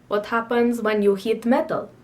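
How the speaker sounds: chemistry teacher in a badly faked African accent; terrible African accent. Quoting the chemistry teacher's question, terrible African accent. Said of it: "my terrible impression of his accent".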